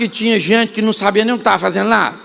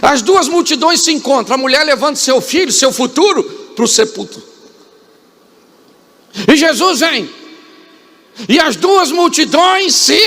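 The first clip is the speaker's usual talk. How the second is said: raised, climbing preacher voice that swells; preaching at full force; 7 semitones higher than usual. Acted. Preacher painting the funeral scene to the congregation, rising and fervent. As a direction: drive the scene home from the pulpit.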